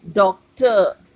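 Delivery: डॉक्टर with a loud open डॉ and a silent r; teacher model of डॉक्टर; clear model word. Shown as a demonstration. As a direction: say डॉक्टर as dok-tuh, no r. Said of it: "डॉ, ये आवाज़ वो आ गई".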